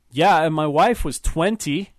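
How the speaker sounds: put-on husband needling his wife's old fiancé, slurring drunkenly; drunken slur. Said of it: "said in a slurred accent".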